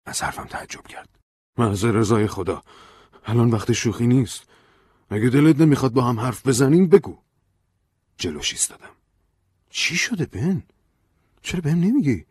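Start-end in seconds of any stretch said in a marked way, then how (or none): 1.6-7.2 exasperated. Acted. Ben snaps, rising exasperation. 9.7-12.3 worried pleading. Acted.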